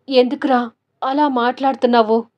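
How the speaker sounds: a touch of tearful pleading. Acted. Mother asks her son tearfully why he speaks so. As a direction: ask through mild tears. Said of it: "కన్నీళ్ళు పెడుతూ".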